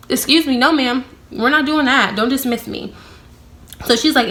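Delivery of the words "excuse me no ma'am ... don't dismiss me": higher-pitched, affronted refusal; indignant retort. Retold or imitated. Employee rebuking a coworker for dismissing her, indignant. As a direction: put her in her place.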